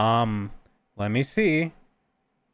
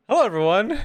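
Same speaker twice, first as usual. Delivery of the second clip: higher, louder mock streamer intro; a lightly put-on cutesy greeting for the bit; 9 semitones higher, 4 dB louder than usual. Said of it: "I was just doing a bit".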